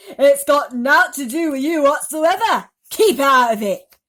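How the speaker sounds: scolding aunt. A narrator's reading.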